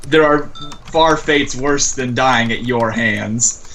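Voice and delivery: slow, understated demonic threat; low menacing roar. Acted. Azazel warns Varen inside his head, slow understated menace. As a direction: deliver a measured threat, drawn out. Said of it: "a low roar into, uh, Varen's head".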